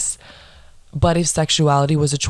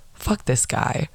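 soft, whispered retelling; hushed dismissal; 5 dB quieter, slower than usual. Retold or imitated. Friends slipping away from the cop, hushed dismissal. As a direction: say it under your breath.

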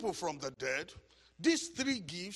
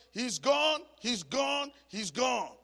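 raised mock cry, losing force by the end; retold shouting; 7 semitones higher, 6 dB louder, slower than usual. Preacher recalling the wife shouting over her dead husband, mock shouting. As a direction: imitate a wife's shout, high and easing off. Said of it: "the wife was shouting".

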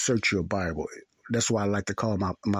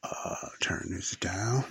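slow whispered aside off mic; 5 dB quieter, much slower than usual. Real, not acted. Teacher mutters to himself while turning the volume down, whispering. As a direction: whisper it to yourself while fixing the sound.

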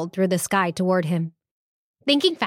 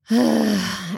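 sigh. Acted. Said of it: "he finished with a sigh".

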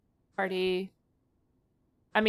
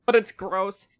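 slightly tipsy speech; loose, tipsy delivery. Real, not acted. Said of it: "Pretty sauced".

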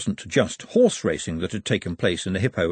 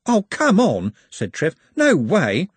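louder, higher outcry; indignant protest; 7 semitones higher, 4 dB louder, slower than usual. Acted. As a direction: refuse flat out. Trev refusing to leave.

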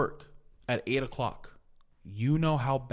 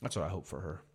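muttered spite; 5 semitones lower, 5 dB quieter than usual. Retold or imitated. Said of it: "So I was like".

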